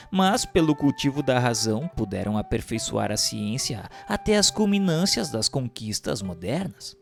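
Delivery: ordinary delivery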